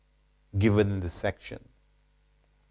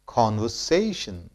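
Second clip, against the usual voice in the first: "conversation" as con-ver-SAY-shun; stress on SAY; 4 dB quieter than usual. Shown as a demonstration. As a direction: raise SAY in "conversation", then drop. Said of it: "more stress is laid on syllable say".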